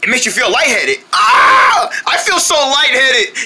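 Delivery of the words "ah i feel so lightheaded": dizzy yelp. Acted. Drinks lightheaded juice.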